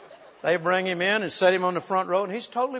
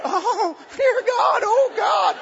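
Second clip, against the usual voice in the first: high, loud cries of alarm; crowd crying out; 4 dB louder, much slower than usual. Retold or imitated. People in the building crying out as he is dragged, loud. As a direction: cry out in shock.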